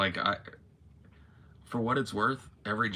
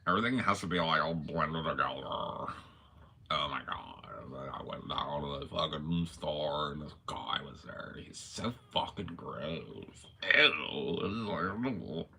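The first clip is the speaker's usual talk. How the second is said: put-on valley girl. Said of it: "You remember the Valley Girl accent?".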